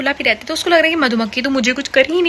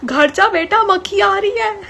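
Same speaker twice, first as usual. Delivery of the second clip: hammed-up shout of an uncle telling a kid to run home; imitated shout from afar; 6 semitones higher, much slower than usual. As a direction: uncle shouting from inside his shop for the girl to go home, mock yell. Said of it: "चिल्ला के बोल रहे".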